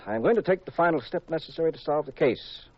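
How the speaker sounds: pompous build-up to a letdown; solemn announcement. Acted. Pat announces the next step to Jean, mock solemn. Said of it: "announced very solemnly".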